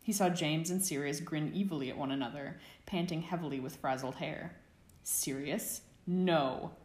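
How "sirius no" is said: a lightly voiced warning, as to a dog; a mild rebuke, firm on no. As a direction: friend warning a friend like a poorly trained dog. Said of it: "Remus warned".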